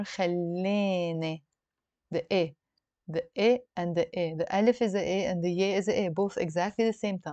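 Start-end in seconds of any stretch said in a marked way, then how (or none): 0.0-1.4 Lebanese dialect, long A as 'ay' in خلاني; Lebanese pronunciation. Shown as a demonstration. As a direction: say خلاني the Lebanese way, 'khallay-nay'. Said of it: "in the Lebanese dialect".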